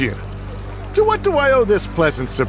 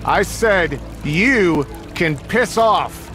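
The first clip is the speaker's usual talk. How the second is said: slow menacing threat; much slower than usual. Acted. Gang boss dismisses detective.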